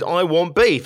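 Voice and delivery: a hint of childish demand; petulant child. Inner child demanding food, lightly petulant. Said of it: "this inner petulant child that says".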